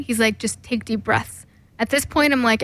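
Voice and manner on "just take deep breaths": soft, slow calming words; soothing coach. Retold or imitated. Boyfriend coaching her to breathe, soft and slow. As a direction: ease her into breathing, slowly.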